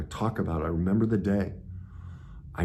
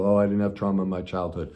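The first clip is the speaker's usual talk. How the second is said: mock denial; faster than usual. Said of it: "most people".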